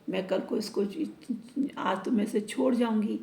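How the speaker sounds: plain reading voice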